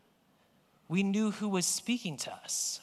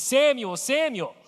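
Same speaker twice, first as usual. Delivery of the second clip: calling out; 6 semitones higher, 4 dB louder than usual. Retold or imitated. God calling Samuel.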